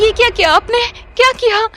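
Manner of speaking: high, wailing protest through pain; tearful cry at her stepmother. Acted. Girl burned by stepmother, crying out.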